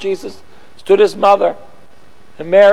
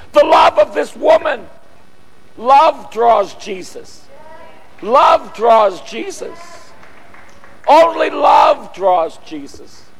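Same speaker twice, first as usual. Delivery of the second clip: preaching fervor. Real, not acted. Preacher building to climax.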